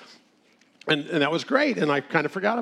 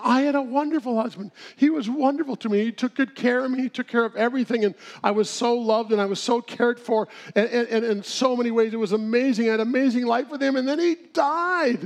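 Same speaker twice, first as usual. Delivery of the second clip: much higher put-on voice, fond then dropping; imitated widow; 8 semitones higher than usual. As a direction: play the widow remembering her husband. Widow praising her late husband.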